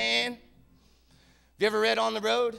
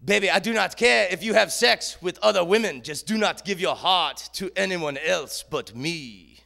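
put-on French accent; 3 semitones lower than usual. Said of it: "She had the greatest French accent".

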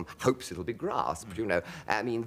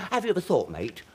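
higher, louder, urgently earnest imitation of Hancock; terribly earnest; 13 semitones higher, 5 dB louder than usual. Hancock pressing his friend about God, imitated earnest and loud. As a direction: press the big question on your mate, half laughing. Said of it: "he got terribly earnest".

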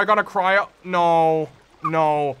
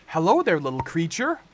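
fairy greeting. Acted.

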